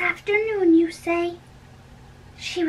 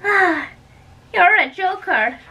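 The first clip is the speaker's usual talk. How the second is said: high, loud, breathless chatter; gushing nurse; 4 semitones higher, 4 dB louder than usual. Acted. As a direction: gush with tearful delight.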